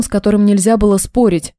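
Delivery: usual speaking voice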